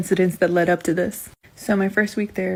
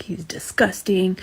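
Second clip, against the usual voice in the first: slow whispered "He's disgusting"; slow gossiping whisper; slower than usual. Retold or imitated. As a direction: hush it like backroom gossip. Nurses gossiping.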